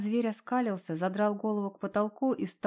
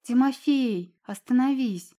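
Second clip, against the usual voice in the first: shouting; 4 semitones higher, 7 dB louder, slower than usual. A narrator's reading. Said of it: "закричала девушка".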